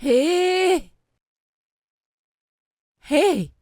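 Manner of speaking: high, bright excited hail; excited call. Acted. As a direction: call out to her, bursting with news. Calling to sister excitedly.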